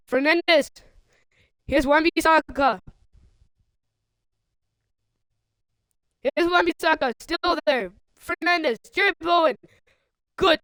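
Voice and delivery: lively football commentary, rising with the attack; keen match commentator following the ball; play-by-play. Real, not acted. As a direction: call the attack as it builds.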